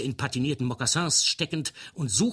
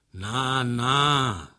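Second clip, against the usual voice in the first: a jeering "na, na"; mocking; 6 dB louder than usual. A narrator's reading. Henri jeering at his crying comrade, mocking. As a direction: scoff at him with a mocking tone. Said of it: "höhnte der obergefreite Polack Henri".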